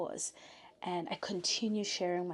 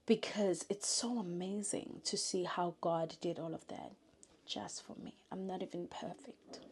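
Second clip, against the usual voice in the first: real awe, softening as it goes; holding back tears, trailing into softness; emotional; 4 dB quieter than usual. Real, not acted. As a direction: fade to a hushed, moved voice. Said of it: "I get so emotional".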